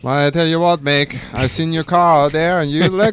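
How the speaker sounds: hammed-up Southern imitation; Southern accent. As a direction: copy a redneck Southern accent. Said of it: "he even repeated what I said".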